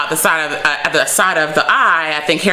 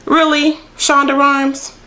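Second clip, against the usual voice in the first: mock outrage; 10 semitones higher than usual. Real, not acted. Vlogger calling out the show's writer, high incredulous cry. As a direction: call out the show's writer in disbelief. Viewer reacts to the plot twist.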